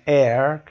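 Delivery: "air", meaning heir, starting on the vowel with no h; silent H. Shown as a demonstration. Teacher showing the odd word out, H silent in "air". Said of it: "اینجا H تلفظ نمیشه".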